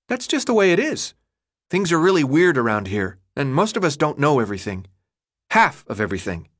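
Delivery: put-on a boy brushing off the question; young boy Chuck. Chuck shrugging off Thomas's question, lightly voiced boy.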